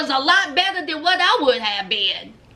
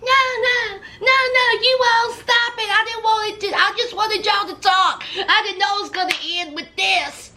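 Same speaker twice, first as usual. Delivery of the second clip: lightly voiced high panic; anxious stop-it plea; high pleading Emily; 5 semitones higher, faster than usual. Emily breaking up the fight, high pleading. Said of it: "Here's Emily".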